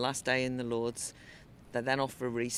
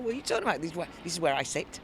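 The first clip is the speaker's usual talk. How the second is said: pathetic protest; 4 semitones higher, much faster than usual. Retold or imitated. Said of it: "I said pathetically".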